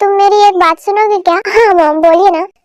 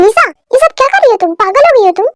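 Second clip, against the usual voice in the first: angry question; 2 semitones higher, faster than usual. Acted. The speaker demands to know what Lisa is doing, angry and fast. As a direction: fire the question at her, quick and sharp.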